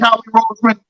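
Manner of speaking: ordinary talk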